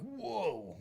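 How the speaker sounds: drawn-out impressed whoa, pitch falling from high; mock whoa. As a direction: imitate a stunned first sip. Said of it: "was like".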